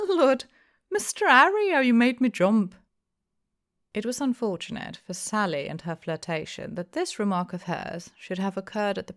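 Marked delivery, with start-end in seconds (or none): 0.1-2.7 high, loud startled squeal; startled girl. A narrator's reading. Barmaid Sally startled by Mister Harry, high squeal. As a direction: jump out of your skin, high and loud.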